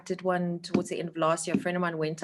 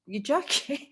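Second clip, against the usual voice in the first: surprised disbelief; 8 semitones higher than usual. Retold or imitated. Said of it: "And I was like".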